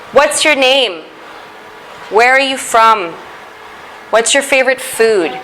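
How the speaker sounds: "name", "from" and "food" each fall at the end; falling question intonation. Shown as a demonstration. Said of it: "it goes down".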